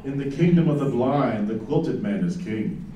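sultry narrator. Pretend. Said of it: "read it in your very sexy voice".

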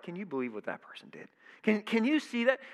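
scoffing at someone's faults, pitch jumping up; mock a gossip picking someone apart; gossipy criticism. Preacher mocks a critical gossip, scoffing. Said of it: "picking apart".

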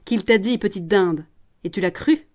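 mocking laugh, then scornful question; sneering chuckle. Promoteur mocking Jeanne with a sneering laugh. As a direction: laugh at her naivety. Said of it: "Le promoteur ricane".

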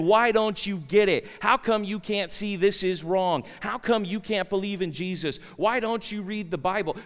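insistent string of impatient questions; mildly condescending challenge; mock condescension. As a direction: imitate someone lecturing the unbeliever. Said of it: "we have an attitude of condescension".

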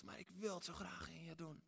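put-on God pleading softly with his child; tender God. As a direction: coax the listener lovingly. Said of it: "God zegt".

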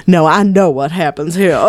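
mock Southern sleuth, laughing. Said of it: "and he's like".

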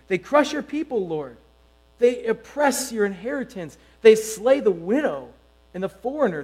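measured, solemn reading of the psalm; scripture reading. Acted. Pastor reading Psalm 94 to the congregation, solemn and measured. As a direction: read it out like a pastor before the church.

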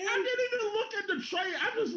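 high laughing voice. Real, not acted. Telling friends about the trade, laughing high. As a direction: giggle through it.

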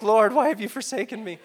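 loud, high, hammed-up cry to God; mock lament. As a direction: wail it in joking despair. Joking lament over a toothache.

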